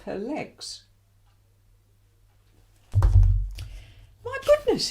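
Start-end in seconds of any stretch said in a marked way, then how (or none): 2.9-4.9 very high, slow and louder drawn-out gasp of wonder; amazed exclaim. Acted. Doctor amazed at the X-ray of Jane's legs, high slow exclaim. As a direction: stretch it out, astonished. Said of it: "exclaimed the doctor".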